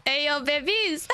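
slow, drawn-out playful New York greeting; mock New York accent. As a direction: stretch it out like a cheeky New Yorker. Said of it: "trying to put a bit of a New York accent on".

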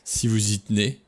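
a mild scoffing sneer; half-hearted sneer. Acted. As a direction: scoff at her request. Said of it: "ricana Lombard".

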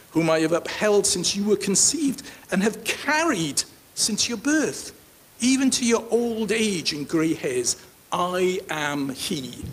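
lifted, declaimed Bible verse; scripture reading. Acted. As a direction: read God's promise aloud, slowing to a close. Reads God's words from scripture.

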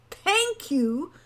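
high, loud incredulous echo; disbelief. A narrator's reading. Hawk echoing Wren's demand for thanks, in disbelief. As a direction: throw the words back, incredulous. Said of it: "said Hawk in disbelief".

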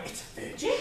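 "virgin?" whispered as a stunned question; whispered disbelief. Retold or imitated. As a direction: breathe it out in shock, voiceless. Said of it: "And I went".

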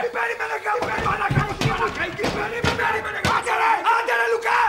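exasperated outburst. Acted. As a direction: throw their plea back at them, fed up. Quarrel with person behind door.

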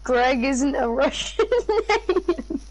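slow, laughing correction. Real, not acted. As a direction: break into a laugh while correcting. Amused correction of the other player.

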